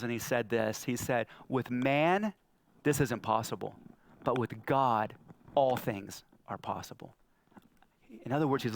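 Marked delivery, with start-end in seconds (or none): 1.5-7.1 low, measured answer with pauses; grave, settled pronouncement; calm solemn assurance. Acted. Jesus answers disciples, solemn quote.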